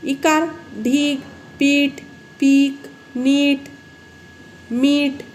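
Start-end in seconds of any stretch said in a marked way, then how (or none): 0.0-2.9 ढीग, पीठ, पीक spoken slowly with the ई held long and higher; long ee words. Shown as a demonstration. Teacher reading example words with long ई to pupils. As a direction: stretch each ई slowly. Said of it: "हे दीर्घच असतात".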